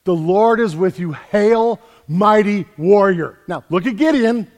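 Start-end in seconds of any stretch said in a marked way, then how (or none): 0.0-3.4 lightly declaimed, louder heralding greeting; angel's proclamation. Acted. Angel hails Gideon in another translation, lightly proclaimed. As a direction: hail him as a herald, louder. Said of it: "translate this".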